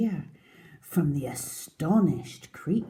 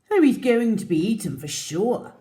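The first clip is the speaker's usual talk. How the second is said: iguana voice; 5 semitones higher, 9 dB louder than usual. Acted. Iguana character line.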